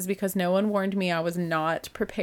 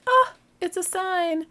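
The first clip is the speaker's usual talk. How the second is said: mock revelation; 12 semitones higher, slower than usual. Retold reaction to friend's request.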